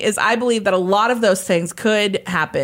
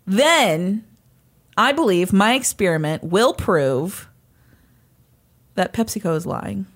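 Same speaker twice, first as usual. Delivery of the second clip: slow, formal scientific statement; formal hypothesis voice; 3 dB louder than usual. Pretend. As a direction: state it like a lab report. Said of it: "you need to put it into an if-then statement".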